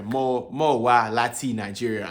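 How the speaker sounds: "wa" kept on a low tone, slowly; different, low wa. Shown as a demonstration. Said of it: "that wa sounded different".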